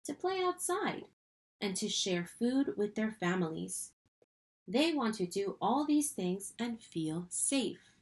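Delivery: expressive picture-book narration; storybook voice with emphatic phrase openings; reading to children. Acted. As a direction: read it to children, lifting key phrases, slowing at the close.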